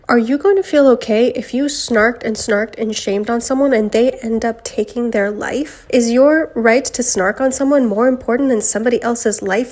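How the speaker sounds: hoarse sick voice. Real, not acted. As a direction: speak with a sick, hoarse throat. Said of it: "sorry for the sick voice".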